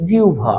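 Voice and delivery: জিহ্বা with iu glide and bh; correct pronunciation. Shown as a demonstration. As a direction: say জিহ্বা as "jiubha". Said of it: "উচ্চারণটা কি হয়ে যাবে".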